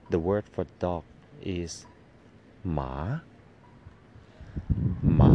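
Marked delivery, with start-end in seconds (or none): 5.2-5.4 หมา with the pitch climbing upward; teacher demo of หมา, rising. Shown as a demonstration. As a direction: let หมา rise. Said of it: "with a rising tone".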